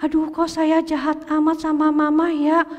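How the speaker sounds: lightly voiced boy thinking to himself, remorseful; Willy's inner voice. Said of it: "di hatinya". (suara batin Willy yang menyesal)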